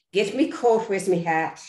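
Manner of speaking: Irish cop voice, lightly done; Irish accent. Retold or imitated. S1 rehearsing her Irish cop lines in an Irish accent. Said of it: "terrified that I was lose the Irish accent".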